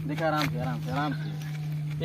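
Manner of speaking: soft, slow hushing; calm them down, slowly; hushed. Acted. Hushing while sneaking.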